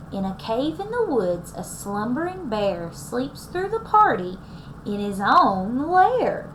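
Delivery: put-on lively read-aloud for young listeners; storybook reading. A narrator's reading. Teacher reading the story to her class, lively storybook voice. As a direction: read it like a picture book to kids.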